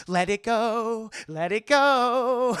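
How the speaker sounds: mock plea dissolving into laughter; slow pleading shout. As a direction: stretch each word, begging. Indy pleads with Elsa.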